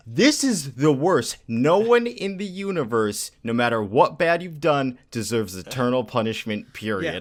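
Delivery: worked-up, incredulous verdict; emphatic outrage. Retold or imitated. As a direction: declare it in exasperated protest. Recounts own outraged reaction to story.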